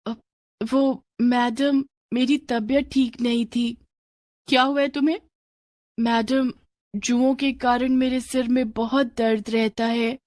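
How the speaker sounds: put-on hesitant little girl answering her teacher; timid schoolgirl.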